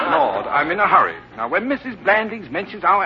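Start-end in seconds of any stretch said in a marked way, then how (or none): 0.0-1.2 words through a real laugh. Real, not acted. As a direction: chuckle while hurrying on. Laughing at own muddle.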